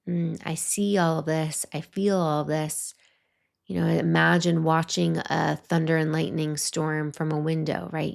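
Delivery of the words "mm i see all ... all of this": quiet, gentle acceptance; tender inner voice naming what you feel; soft self-acknowledgment. Retold or imitated. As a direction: soothe yourself as you notice it all. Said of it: "breathe into it and say".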